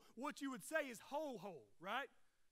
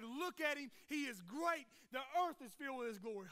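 lifted, emphatic praise; angels in awe; 4 dB louder than usual. Acted. Angels beholding God in all his glory, emphatic praise. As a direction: proclaim it like a marvelling angel. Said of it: "look at God in all of his glory and say".

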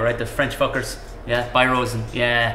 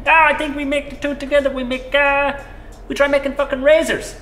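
excited idea man; 11 semitones higher, 3 dB louder than usual. Acted. Peter pitching razors.

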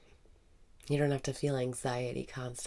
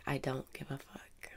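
soft whisper, softer than the cue; whispered affirmation; 6 dB quieter than usual. Acted. Guide voicing a cheeky affirmation, soft whisper. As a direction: let the cheeky line slip out under the breath.

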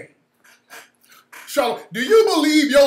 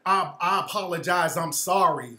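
mock apology; 4 semitones lower, 3 dB quieter than usual. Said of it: "I'm sorry" bullshit is what's getting me".

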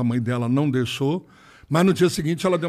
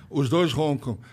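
laughing; slower than usual. Real, not acted. Repeats the confession with a laugh.

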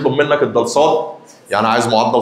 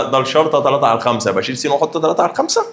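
quick, rising, unsure student guess with الخمسة lifted; mock student guess; faster than usual. Teacher voicing a student's wrong idea, quick and rising. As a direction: ask it like a confused student. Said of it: "قال لك طب انا".

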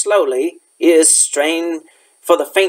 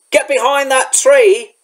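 higher-pitched, urgent order to take cover; urgent warning; 8 semitones higher than usual. A narrator's reading. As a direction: warn them of danger close by. Hagrid orders children to hide.

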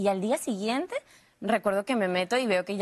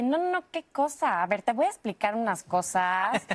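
put-on Monterrey accent. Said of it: "el de Monterrey".

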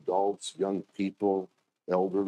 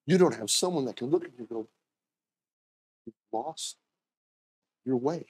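pitying heaven voice; 3 semitones higher than usual. Retold or imitated. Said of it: "from heaven, it's like".

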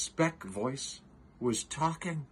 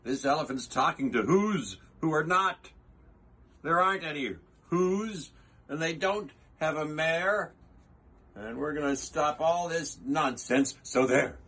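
mock shouting monkeys; 2 semitones higher than usual. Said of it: "came shouting".

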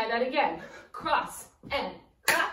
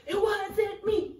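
slow and higher, stretched out; drawn-out denial; 7 semitones higher, slower than usual. Pretend. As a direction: drag the line out like a chant. Dance chant, repeated.

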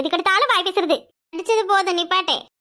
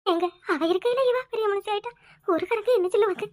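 tearful worry; 5 dB quieter than usual. Acted. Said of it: "கவலைப்பட்டுக்கிட்டு இருக்க?".

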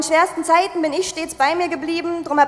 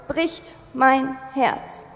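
ordinary delivery

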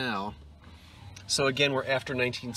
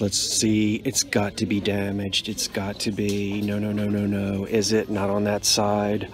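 lower, pressed voice while holding her breath over a find; odd low voice; 6 semitones lower than usual. Real, not acted. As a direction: drop the voice low while inspecting closely. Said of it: "I don't know why I'm talking like this".

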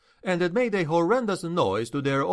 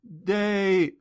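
high, feigned wounded cry; artistic groaning; 7 semitones higher than usual. A narrator's reading. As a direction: act injured and break off. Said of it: "groaning artistically".

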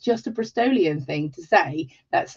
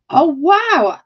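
higher, louder delighted wow; impressed wow; 10 semitones higher, 7 dB louder than usual. Real, not acted. Host reading that it snowed, a higher, louder wow. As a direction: let the wow jump up. Reacting to viewer's snow.

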